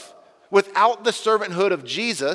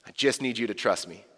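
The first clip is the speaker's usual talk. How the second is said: a touch of Jesus calming Peter; Jesus reassuring; 5 semitones lower than usual. Pretend. Jesus asking Peter to trust him, gently reassuring. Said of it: "Jesus answers".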